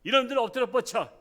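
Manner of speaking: high, loud scolding shout; father's angry order. Retold or imitated. Father orders the sons to get into punishment position, shouting. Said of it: "사고 쳤어".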